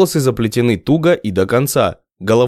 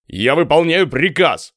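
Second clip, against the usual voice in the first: anxious; 4 semitones higher than usual. A narrator's reading. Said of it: "усатый заволновался".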